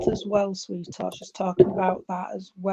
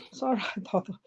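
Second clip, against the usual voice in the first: quick whispered reassurance under the breath; whispered aside; 3 dB quieter than usual. Real, not acted. Medium whispers a quick aside to someone nearby. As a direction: drop to a whisper for a side remark.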